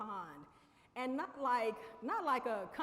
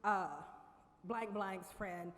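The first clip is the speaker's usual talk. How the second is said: stuttered; 2 semitones lower, much slower than usual. Retold or imitated. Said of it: "I kinda stuttered".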